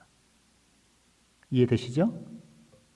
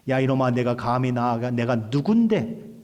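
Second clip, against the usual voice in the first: imitated telling-off, only mildly raised; mock scolding. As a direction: act out an offended superior's rebuke. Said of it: "라고 호통치지 않으시고 화를 내시도 않으셨다는". (호통치는 흉내)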